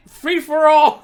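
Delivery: high, loud, drawn-out holler; gleeful yell. Acted. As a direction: call it out like a battle cry. Acting out the man in the restroom.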